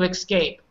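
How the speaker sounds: escape said ik-SKAPE, with an x; wrong pronunciation. Shown as a demonstration. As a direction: slip a k before the s in escape. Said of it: "Here's the wrong, wrong one".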